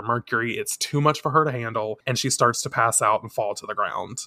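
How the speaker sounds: normal talking voice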